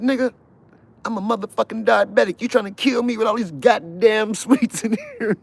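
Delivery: high, loud barking guard; mock guard yell. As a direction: bellow like a prison guard. Guard ranting during search.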